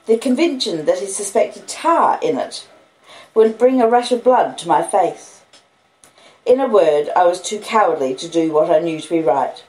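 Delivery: plain reading voice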